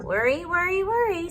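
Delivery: put-on a granny clucking over the girl; lightly voiced grandma, rising; fussing grandmother. Grandmother chimes in.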